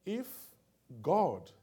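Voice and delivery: sudden high, loud cry on "God"; preaching burst. Acted. Preacher crying out to the congregation, high and loud. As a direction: throw the word out over the crowd.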